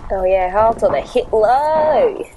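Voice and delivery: cheery Aussie bloke; matey Australian banter; Australian accent. Acted. Australian captain Davo sketch.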